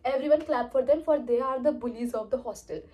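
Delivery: put-on ma'am shaming the girls before the hall, slow and loud; sarcastic announcement. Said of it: "मैं बताऊँ क्या बोल रही".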